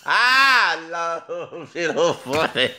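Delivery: talking through laughter; words broken by giggles; laughing. Real, not acted. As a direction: speak while still laughing.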